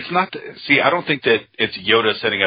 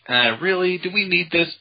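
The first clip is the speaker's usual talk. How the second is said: doubtful; 10 semitones higher than usual. Retold or imitated. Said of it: "sometimes I'm like".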